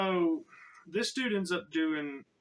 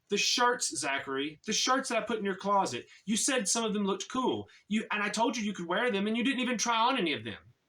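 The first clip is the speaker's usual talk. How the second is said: mock indignation in a higher voice; retold mild scolding, higher and insistent; aggrieved complaint; 5 semitones higher than usual. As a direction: imitate an exasperated roommate, pitched up. Acted aggrieved roommate complaining about shirts.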